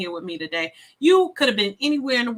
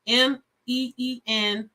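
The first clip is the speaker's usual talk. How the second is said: spelled out letter by letter; slower than usual. Shown as a demonstration. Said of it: "So A".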